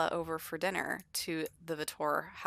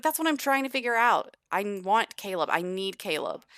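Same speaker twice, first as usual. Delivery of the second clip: whiny demand; 3 semitones higher, 4 dB louder than usual. Acted. Arya voiced, upset and demanding.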